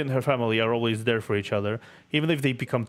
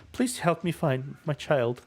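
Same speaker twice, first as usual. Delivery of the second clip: sorrowful plea; 4 semitones higher, slower than usual. Acted. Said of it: "A sorrowful plea".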